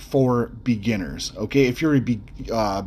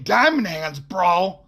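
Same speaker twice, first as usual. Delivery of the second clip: high, goofy bro voice, proud of the slogan; a dumb crypto bro tossing out his catchphrase; Bobby Cheeto Fingers voice; 6 semitones higher, slower than usual. Retold or imitated. Guy at the 7-Eleven bragging to the listener, high goofy bro voice. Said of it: "you hear Bobby Cheeto Fingers go".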